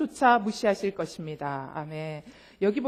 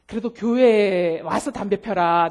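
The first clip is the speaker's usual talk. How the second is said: slow pleading permission; 4 semitones lower, 4 dB louder than usual. Retold or imitated. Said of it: "내가 그랬어요".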